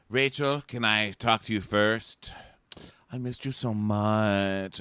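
slow, drawn-out mock wooing; mock lovesick. Chiropractor wooing the Bachelorette, mock lovesick drawl. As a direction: stretch it out like a syrupy suitor.

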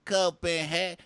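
high, loud drawn-out disbelief; mock astonishment. Date hearing Copenhagen facts, mock astonished. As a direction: blurt it like a stunned dope. Retelling a baffled date's reaction.

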